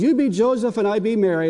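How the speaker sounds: a hint of a patient toddler spelling it out; granddaughter's voice. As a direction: grandpa imitating the girl's insistent repeat. Granddaughter repeats her request.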